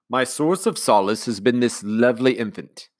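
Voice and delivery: lightly voiced sentimental widower; gushing a little over the baby; commander. Commander to Nanny about the baby, lightly sentimental.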